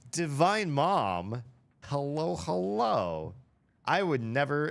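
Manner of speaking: high, loud, drawn-out hello to a surprise guest; light up at a famous name in chat; excited greeting. Real, not acted. Streamer greeting a famous streamer in chat, excited.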